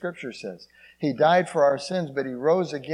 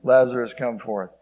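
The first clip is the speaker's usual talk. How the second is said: commanding call; 6 dB louder than usual. Acted. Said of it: "But he said".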